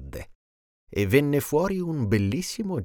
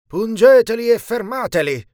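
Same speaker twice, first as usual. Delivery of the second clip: high, much louder furious order; angry command; 13 semitones higher, 8 dB louder than usual. Acted. Evil genie orders the ants to sting them, furious yell. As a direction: snarl the order like a wicked genie. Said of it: "disse alle formiche".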